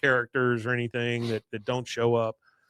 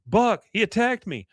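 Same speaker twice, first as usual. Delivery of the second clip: whiny complaint; 7 semitones higher, 6 dB louder than usual. Retold or imitated. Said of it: "this is Rich saying".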